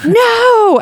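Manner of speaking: high, loud acted scream; horrified scream. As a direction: scream it in horror. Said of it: "Ellen screamed".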